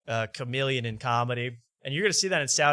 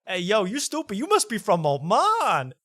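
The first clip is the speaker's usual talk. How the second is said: bro roast; 7 semitones higher, 3 dB louder than usual. Retold or imitated. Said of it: "And he goes".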